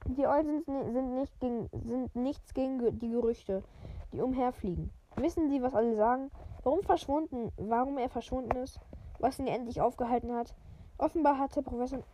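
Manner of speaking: even, measured read-aloud voice; story narration. A narrator's reading. Podcaster reading a wizard novel to listeners, story narration.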